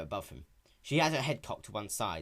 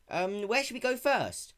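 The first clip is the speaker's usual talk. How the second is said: put-on young dragon voice; 10 semitones higher, 4 dB louder than usual. Spike voiced in story.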